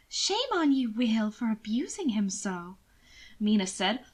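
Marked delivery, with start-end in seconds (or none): 0.1-2.8 lady's mock scolding. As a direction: chide him with affected sweetness. Mina scolding playfully.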